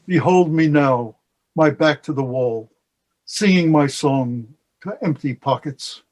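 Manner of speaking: slow, measured verse with pauses between lines; poem recitation. Acted. Poet reciting a long-remembered translated poem, slow and measured. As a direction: recite it line by line, unhurried.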